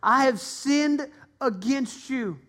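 son asks his father to take him back; mild repentant plea. Acted. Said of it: "And he said".

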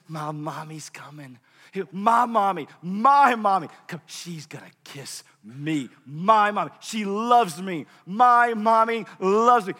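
put-on excited child. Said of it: "he starts giggling".

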